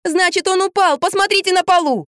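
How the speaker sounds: urgent shout. A narrator's reading. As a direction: shout through the wall. Shouting instructions through wall.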